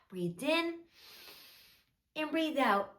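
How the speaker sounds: soft, measured storybook narration; children's storytelling. A narrator's reading. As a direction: tell a gentle story to small children.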